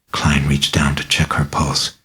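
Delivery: ordinary delivery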